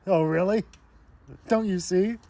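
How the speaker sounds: high-pitched mock taunt; hammed-up challenge. Attacker after the punch, mock-taunting up high. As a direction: push it up high, theatrically.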